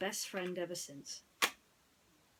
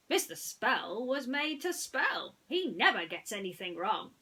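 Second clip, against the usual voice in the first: higher, slow and firm; Woody insisting; 4 semitones higher, 5 dB louder than usual. Acted. Woody defends Mister Spell, slow and firm. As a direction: lay it out like a cowboy who knows.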